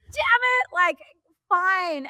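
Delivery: high, mock-deflated reporter grumbling; disappointed reporter. Mocking the reporter who missed his emotional story, high and deflated. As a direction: play the let-down newsman, half-hearted.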